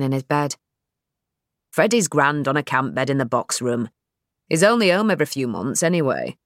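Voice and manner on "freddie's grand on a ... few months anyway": dad's voice. Acted. Narrator voicing Nell's dad.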